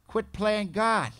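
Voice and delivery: high, loud and very slow, every word hammered; emphatic command. Real, not acted. Speaker driving home the main lesson to the AA room, slow and loud. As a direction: nail it home like a preacher. Sponsor preaching the key rule.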